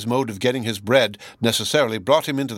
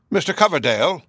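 a timid, faltering call, pitched higher; hesitant call; 6 semitones higher, 3 dB louder than usual. A narrator's reading. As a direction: call his name shyly, unsure of yourself. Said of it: "the hesitating and ineffectual way in which he uttered it".

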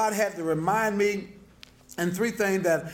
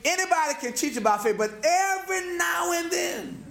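raised-pitch, rhythmic sermon build; preaching; 5 semitones higher than usual. Real, not acted. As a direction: preach it in mounting parallel phrases. Preacher builds a repeated refrain.

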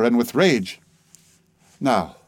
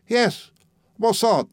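much higher, mocking French mimicry; mock his bad pronunciation; mimicking his pronunciation; 10 semitones higher, slower than usual. Old woman mimicking the narrator's pronunciation, mocking. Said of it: "mimicking my pronunciation".

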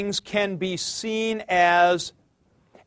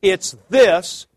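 "this" punched firmly and louder; emphatic stress on this; 5 dB louder than usual. Shown as a demonstration. Teacher voicing the author's point, stressed "this". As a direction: land hard on "this". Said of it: "in an emphatic position to say".

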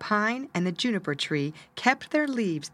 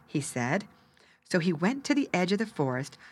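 ordinary delivery

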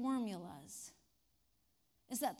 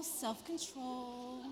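self-control slow and softer; 5 dB quieter, much slower than usual. Real, not acted. Teacher repeats to herself, slow and softer. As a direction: quietly settle yourself. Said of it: "But I refrained".

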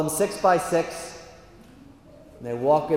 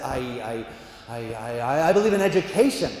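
low halting start, then blurted; nervous stammer; 3 semitones lower than usual. Acted. Augustinian answering God, nervous stammer. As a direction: stammer before finding the answer.

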